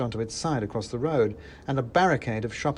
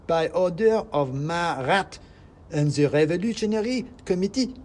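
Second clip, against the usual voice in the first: high, louder squeaky proclamation; revolutionary mouse; 6 semitones higher, 5 dB louder than usual. Acted. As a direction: announce it like a tiny commissar. Second mouse continues decree.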